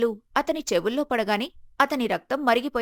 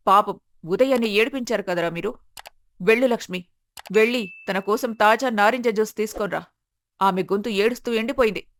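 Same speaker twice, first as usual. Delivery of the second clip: lightly voiced stern matriarch, slightly lowered; a hint of an imperious mother; domineering mother; 3 semitones lower than usual. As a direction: lay down the law as head of the house.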